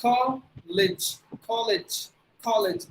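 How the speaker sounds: College as KOL-ij; short vowel. Shown as a demonstration. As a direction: keep the end of College short. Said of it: "short sound".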